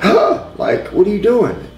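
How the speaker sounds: high, sharp indignant gasp then question; she's outraged, pitch jumping way up; offended woman snapping back, high; upset outburst. Retold or imitated. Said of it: "And she was really mad".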